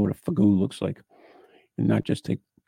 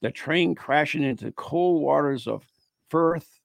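measured read-aloud narration; ghost story read aloud; 4 semitones higher than usual. Acted. Host reading a Christmas Eve ghost tale, narrating. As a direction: read it out as a local legend.

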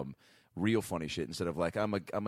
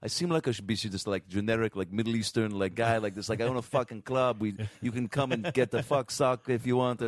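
lightly put-on Middle Eastern accent; hint of a Middle Eastern club owner's accent; 2 semitones higher than usual. Actor re-enacting his audition as a club owner, light Middle Eastern accent. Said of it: "me doing an accent".

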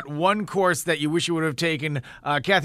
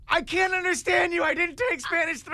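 high, raised mock excuse; mock helpless excuse; 10 semitones higher than usual. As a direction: plead ignorance playfully. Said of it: "you're like".

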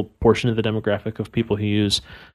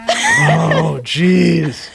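hammy exclamation; 7 semitones higher than usual. Pretend. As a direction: overplay the groan, way up high. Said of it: "This is so cheesy".

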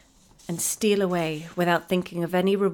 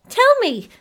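very high, loud shriek; 12 dB louder, slower than usual. A narrator's reading. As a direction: shriek it, begging. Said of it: "shrieked Effie".

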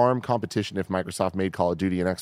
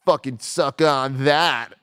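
gloating; 4 semitones higher, 3 dB louder, much slower than usual. Acted. Gloating over Microsoft's statement.

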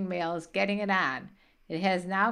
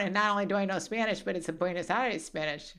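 mockingly boastful, starting louder and easing off; mock pretentious; 6 dB louder than usual. Mother teasing son about texting Spanish, mock pretentious. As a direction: show off like an insufferable know-it-all, in mockery. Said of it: "you're being pretentious".

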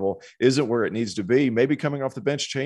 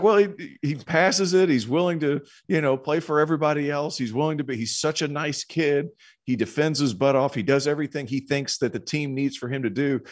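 high, light Swedish accent imitation; 5 semitones higher than usual. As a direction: quote him in a Swedish lilt. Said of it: "in his Swedish accent".

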